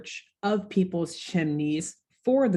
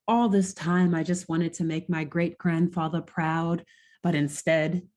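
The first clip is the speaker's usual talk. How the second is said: put-on posh accent. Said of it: "I just have to do his accent".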